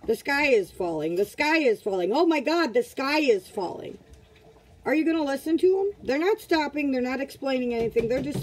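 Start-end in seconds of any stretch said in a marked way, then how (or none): 0.1-4.0 mock alarm hollering. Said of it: "somebody starts hollering out".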